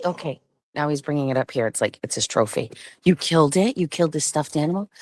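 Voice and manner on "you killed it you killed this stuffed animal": ordinary talk, nothing marked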